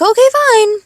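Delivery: high, loud mock-grudging give-in; a squeaky put-upon surrender; grudging okay. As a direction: cave in with exaggerated reluctance. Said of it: "I was like".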